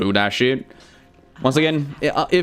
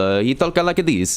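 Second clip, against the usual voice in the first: slow mock Italian accent; Italian turtle accent; 2 semitones higher than usual. Turtle showing how he talks, mock Italian accent. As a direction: draw it out in a comic Italian accent. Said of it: "Italian turtle be like".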